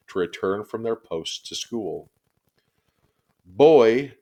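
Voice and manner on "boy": loud, raised call across the street; shouted summons. A narrator's reading. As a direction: call out to the boy from afar. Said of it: "Miss Binny called out".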